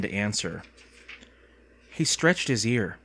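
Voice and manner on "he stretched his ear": ordinary delivery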